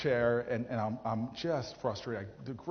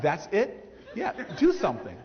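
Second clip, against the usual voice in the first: laughing disbelief; 7 semitones higher, 7 dB louder than usual. Retold or imitated. Incredulous reply amid laughter.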